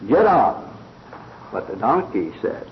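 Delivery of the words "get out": excited. Retold or imitated. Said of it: "He sprang forward excitedly".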